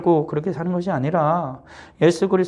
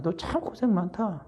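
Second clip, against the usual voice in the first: tender pity; 2 semitones higher, 8 dB quieter, slower than usual. Acted. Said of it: "주님 말씀하시는 거죠".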